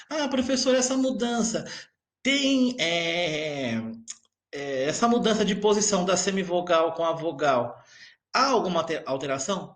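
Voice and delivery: lightly voiced puzzled student, pitch up at the start; student question. Teacher voicing a pupil's question to the class, lightly played. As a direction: ask it as a curious pupil would.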